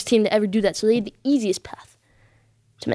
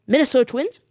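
incredulous rising question; mock disbelief. Viewer questions the host's shock pick, mock disbelief. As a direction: query the name like a doubting viewer. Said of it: "You're saying".

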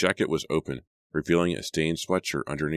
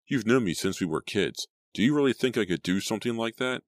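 shouting; 6 semitones higher than usual. A narrator's reading. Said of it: "But he continued shouting".

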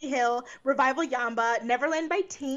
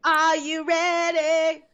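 announcer voice; 4 semitones higher, 4 dB louder than usual. Pretend. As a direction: build it up like a TV host. Hypes the main event like a host.

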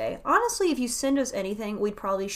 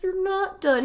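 imitated retort; 10 semitones higher, 6 dB louder than usual. Imitated wife arguing back at husband.

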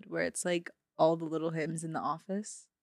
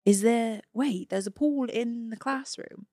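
loud put-on Cockney; Cockney accent; 4 semitones higher, 3 dB louder than usual. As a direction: call it out in amateur Cockney. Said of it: "the accent is Cockney".

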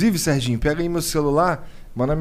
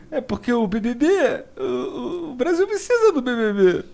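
put-on drunk friend rambling; 8 semitones higher than usual. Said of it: "Tem uma hora que ele".

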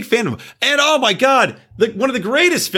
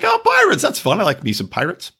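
excited; 4 semitones higher than usual. Retold or imitated. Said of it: "So I'm like".

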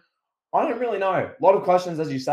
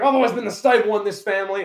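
mildly indignant, higher-pitched protest; Roman Reigns; 5 semitones higher, 4 dB louder than usual. Pretend. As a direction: insist on it like an affronted wrestler. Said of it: "Roman just goes off".

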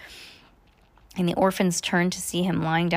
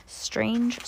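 higher, softly voiced musing; playful high remark; 5 semitones higher, 4 dB quieter than usual. Playful aside, voiced then whispered.

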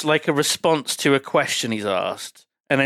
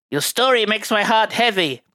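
laughing through quote; 6 semitones higher than usual. Retold or imitated. Master Tang quote, mock solemn.

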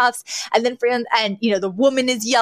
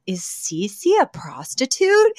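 reading own note; 4 semitones higher, slower than usual. Retold or imitated. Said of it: "I literally wrote".

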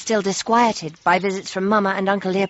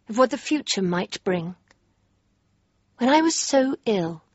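a lightly voiced diary reading, measured and reflective; diary narration; 3 semitones lower than usual. A young princess reading her diary entry, reflective narration. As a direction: read the journal entry to yourself, unhurried.

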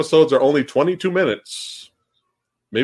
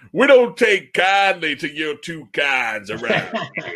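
redneck voice; 4 semitones higher, slower than usual. Pretend. Voicing the raptors, hick line.

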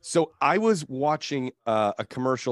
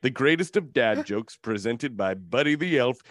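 measured, dramatic trailer narration; epic movie-trailer voice. Acted. Host reads glowing listener review, epic trailer voice. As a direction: read it like an epic film trailer. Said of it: "my epic movie trailer voice".

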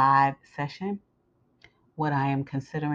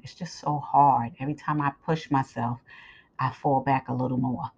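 hoarse scratchy voice from a swollen throat; talking through a sore, scratchy throat. Real, not acted. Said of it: "'cause my throat is swollen".

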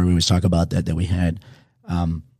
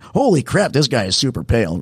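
shocked surprise; 5 semitones higher than usual. Retold or imitated. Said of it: "And I was like".

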